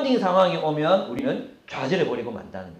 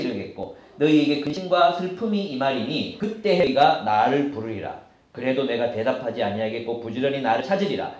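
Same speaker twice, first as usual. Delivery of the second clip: lower, measured Bible reading; scripture reading; 3 semitones lower than usual. Real, not acted. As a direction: read the verse out evenly. (차분한 성경 봉독)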